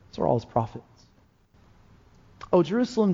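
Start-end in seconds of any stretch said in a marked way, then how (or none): 2.5-3.1 raised, pleading call of the name; lamenting cry. Acted. Preacher voicing Jesus calling out over the city, a raised lament. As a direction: cry out Jerusalem like a grieving plea.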